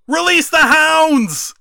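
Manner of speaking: very high, loud, slow hammed-up order; mock grand command. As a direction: bellow it like a cartoon villain. Retelling Jericho's dramatic command.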